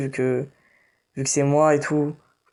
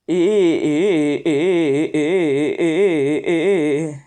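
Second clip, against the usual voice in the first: loud, frantic stuttering; panicked stammer; 5 dB louder, much slower than usual. Real, not acted. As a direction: stammer in panic mid-fight. Panicked stammer during a fight.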